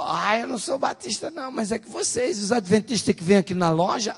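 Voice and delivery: high, indignant imitation of a woman; retold tirade. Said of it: "mandou bala nos adventistas". (imitando mulher reclamando, voz aguda)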